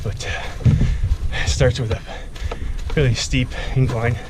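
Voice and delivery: short breathy phrases, still winded; gasping for air between words; out of breath. Real, not acted. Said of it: "Sorry I'm out of breath".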